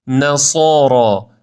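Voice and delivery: نصارا slow, light nun and heavy sad; نصارا with a thin n and a thick s; right. Shown as a demonstration. Teacher modelling the thin nun and thick sad. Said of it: "نون نازک، صاد درشت".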